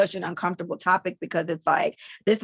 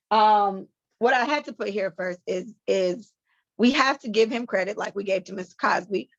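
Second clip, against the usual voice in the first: ordinary talk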